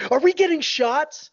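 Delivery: high, loud imitation of an alarmed kid; mock child's shriek; shouting out. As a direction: blurt it out as a panicked child would. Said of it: "shouts out".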